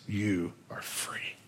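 soft, slow whisper of release; the man frees the slave woman, whispering softly; hushed. Retold or imitated. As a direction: breathe it to her gently, slowly. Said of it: "he says".

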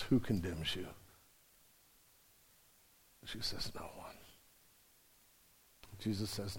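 low, soft, intimate sermon voice; quiet tender preacher; hushed preaching. Acted. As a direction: draw them close, almost confiding.

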